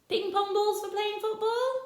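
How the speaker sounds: high, football rising in disbelief; you can't be serious; incredulous question. Acted. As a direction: Rossetti amused by the list. Rossetti questions the list.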